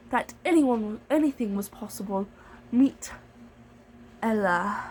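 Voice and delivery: slow, lilting fairy-tale narration; storybook read-aloud. Pretend. Narrating Cinderella for a read-along, lilting.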